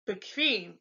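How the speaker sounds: bequem said slowly as 'be-kvaym'; German KV sound. Shown as a demonstration. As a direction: put a K-V in the middle of bequem. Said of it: "it's actually the K V sound".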